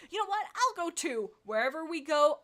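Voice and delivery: squeaky eager she cat; chirpy sidekick cat; high cat voice. Acted.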